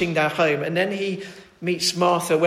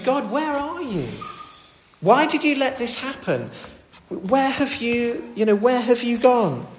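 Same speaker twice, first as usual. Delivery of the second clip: desperate plea; 3 semitones higher, 3 dB quieter than usual. Acted. Voicing desperate psalmist.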